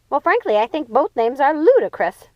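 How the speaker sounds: irritated retort; snapping. Acted. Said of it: "Lucinda snapped".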